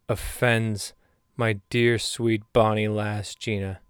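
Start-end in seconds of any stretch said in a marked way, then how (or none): 1.4-3.8 put-on Irish accent. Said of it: "so you get that I'm speaking Irishly".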